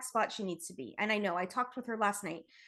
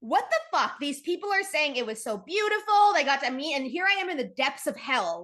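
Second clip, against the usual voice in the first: shocked disbelief; 4 semitones higher, 3 dB louder than usual. Retold or imitated. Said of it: "I'm going".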